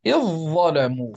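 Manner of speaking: إذ ظلموا with the dhal merged into the ẓa; assimilated reading. Shown as a demonstration. Teacher shows students the dhal merged into the ẓa. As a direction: say إذ ظلموا as "iẓẓalamū". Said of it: "فتدغم تلك الذال مع الظاء".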